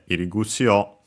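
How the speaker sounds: level, unaccented "Irigutsu o"; unaccented pitch pattern. Shown as a demonstration. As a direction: say "Irigutsu o" with no drop on the final o.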